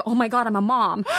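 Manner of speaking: retold whimper at herself; mock tearful dismay. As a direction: lightly imitate crying in embarrassment. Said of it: "crying because I'm just a mom".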